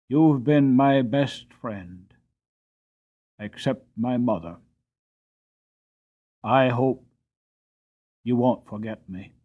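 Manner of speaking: choked up, a touch of tears, slow; lightly choked, fighting back feeling; thick voice. A narrator's reading. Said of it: "there was a thickness in his voice".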